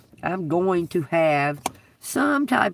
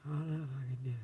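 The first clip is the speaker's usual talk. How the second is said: lightly voiced fretful woman, lower, quick muttering; imitating the lady; 5 semitones lower, 4 dB quieter than usual. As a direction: play her grumbling to herself about her shoes. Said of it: "I think she was doubting herself".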